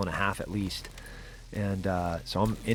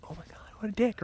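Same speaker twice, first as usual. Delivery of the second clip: high, incredulous exclamation; a mock-scandalised aside; mock outrage; 12 semitones higher, 6 dB quieter, faster than usual. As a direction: react as if insulted, pitched way up. His own retold outraged reaction.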